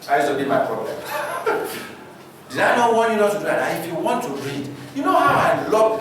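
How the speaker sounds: a hint of a stern father scolding; scolding dad. Father scolding his son over ironing, lightly voiced.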